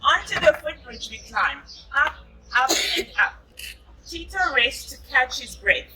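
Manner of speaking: put-on gentle storybook narration for a child; reading to children. A narrator's reading. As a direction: read it like a bedtime picture book. Reading picture book to child.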